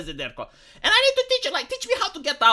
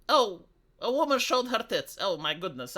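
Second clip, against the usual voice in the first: deadpan mock shock; 2 semitones lower, 5 dB quieter than usual. Streamer mocking a scandal he shrugs at, deadpan mock shock. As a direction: feign shock with no effort at all. Feigns shock after asking why.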